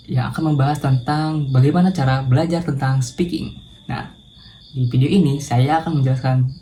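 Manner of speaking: a touch of cheerful lift, lightly upbeat; mildly cheerful presenter intro. Shown as a demonstration. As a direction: greet viewers with mild brightness. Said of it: "intonasi dengan nada yang ceria".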